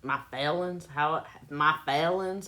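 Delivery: "feelings" as "fellins", no g; own "fellins" pronunciation. Shown as a demonstration. Puzzled how others want it said, "feelings" as "fellins". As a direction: say "feelings" with a short vowel and dropped g. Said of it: "How you want me to say it?".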